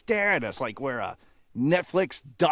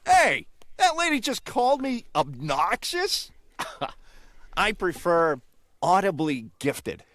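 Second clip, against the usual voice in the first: blue jay voice; 6 semitones higher, slower than usual. Acted. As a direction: play a cocky blue jay. Blue jay character in skit.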